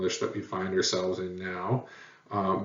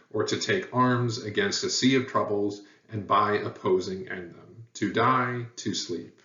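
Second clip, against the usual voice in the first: lightly theatrical recitation; poem recitation. Acted. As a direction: recite Shakespeare like a stage soliloquy. Teacher recites Hamlet soliloquy.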